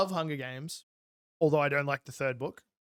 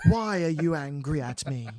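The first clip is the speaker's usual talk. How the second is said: slow, droning question without feeling; monotone narrator; slower than usual. Retold or imitated. Mocking how the narrator reads an angry boy, monotone. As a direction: ask it as an emotionless drone. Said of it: "The monotone drone".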